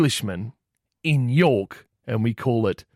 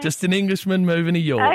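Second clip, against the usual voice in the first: higher-pitched fake English sign-off; poor English accent; 6 semitones higher, 3 dB louder than usual. Prank caller lets busy cafe worker go, poor English accent. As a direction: wrap up in a put-on English accent. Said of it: "disregard the piss poor English accent".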